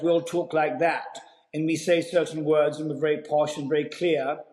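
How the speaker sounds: posh, very clear Received Pronunciation; posh RP English accent. Shown as a demonstration. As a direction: demonstrate RP, with crisp, careful words. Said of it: "what's called an R P accent".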